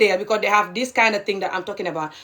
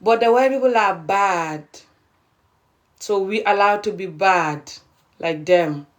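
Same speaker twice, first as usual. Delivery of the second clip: slower, mocking mimicry of their excuse; mocking quote; 3 semitones lower, slower than usual. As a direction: drag it out as if parroting them. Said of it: "They also will say that".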